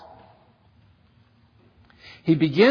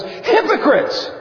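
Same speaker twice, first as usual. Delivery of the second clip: much higher and slow, a cutting call-out; sharp rebuke; 11 semitones higher, slower than usual. Retold or imitated. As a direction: fling the word at them. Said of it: "he looks at him and he goes".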